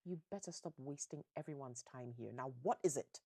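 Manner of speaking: mildly exasperated scolding, sharpening at the end; impatient mother. Acted. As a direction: act out a mother losing patience. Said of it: "she's getting very impatient".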